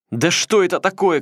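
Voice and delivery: put-on high, loud boyish voice through tears; crying boyish shout. A narrator's reading. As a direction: cry out in a high boy's voice. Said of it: "кричал он сквозь слёзы тонким мальчишеским голосом". (тонкий мальчишеский крик сквозь слёзы)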